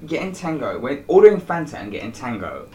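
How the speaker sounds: high, loud outraged rant; indignant rant. Real, not acted. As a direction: rant like you've been wronged. Ranting about Fanta swap.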